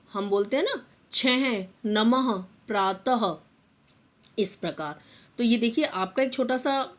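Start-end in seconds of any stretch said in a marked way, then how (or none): 1.9-3.4 नमः, प्रातः slowly with a clear final h; visarga as h. Shown as a demonstration. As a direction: stretch नमः and breathe out the h. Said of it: "इनका उच्चारण हम ह की तरह करते हैं".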